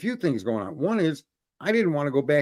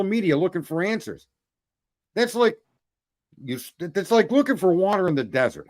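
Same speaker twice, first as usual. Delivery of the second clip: heated rant, pitched up; fired up; 3 semitones higher than usual. Real, not acted. Host railing at people hunting answers on social media, fired up. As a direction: rail at the listeners in raised, exasperated tones. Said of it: "you are fired the fuck up tonight".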